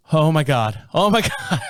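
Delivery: a laughing, half-mocking "oh my God" from his wife; imitating wife's laughing awe. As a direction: mimic her giddy shock in the tile store. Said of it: "my wife goes".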